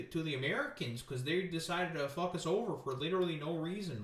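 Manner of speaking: sing-song Canadian mock surprise. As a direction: play up a folksy Canadian accent.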